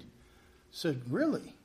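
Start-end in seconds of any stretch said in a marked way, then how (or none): 1.1-1.5 surprised really. Retold or imitated. Retold surprise at Jamie.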